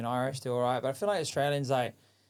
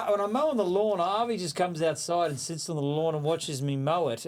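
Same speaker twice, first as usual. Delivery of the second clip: higher, earnest dad voice; dad's pitch; 5 semitones higher than usual. Retold or imitated. Dad on the phone to his son, higher earnest pitch. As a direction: imitate dad pitching a joke idea. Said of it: "he's like".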